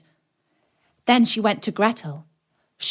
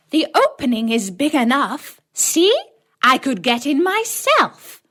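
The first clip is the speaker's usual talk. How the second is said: high, loud witch voice; impatient witch; 6 semitones higher, 5 dB louder than usual. A narrator's reading. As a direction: show her how, irritated. Witch shows the oven.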